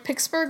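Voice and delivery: "Pittsburgh" slipped out as "Picksburgh"; accidental mispronunciation. Real, not acted. Co-host fumbling a team's city, "Pittsburgh" said as "Picksburgh". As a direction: say "Pittsburgh" with a k sound for the t. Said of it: "I accidentally said Pittsburgh".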